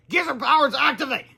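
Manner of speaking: high, loud transformation call; hammed-up battle cry. Grandparents joining hands to transform, loud battle cry. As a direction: call it like a superhero.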